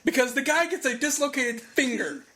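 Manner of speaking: worked-up scorn; indignant rant. Real, not acted. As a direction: argue it in open disbelief. Indignant rant about called-off match.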